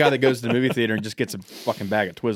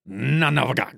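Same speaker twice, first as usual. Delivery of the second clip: said backwards. Shown as a demonstration. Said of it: "I'll say it backwards".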